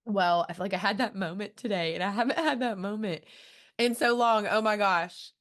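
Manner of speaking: real welling-up, pitch rising; moved, fighting back happy tears; choked up at a sweet memory; about to cry. Real, not acted. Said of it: "I think I'm about to cry again".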